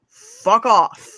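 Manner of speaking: loud, drawn-out dismissal; annoyed rebuke. Acted. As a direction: send them packing, punching it out. Imagined rebuke of noisy children.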